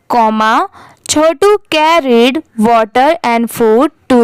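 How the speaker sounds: very slow reading, short pause at each comma; slow model reading with pauses at punctuation; pausing at punctuation. Shown as a demonstration. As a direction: read slowly, stop at commas and full stops. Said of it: "कैसे थोड़ा रुकना चाहिए".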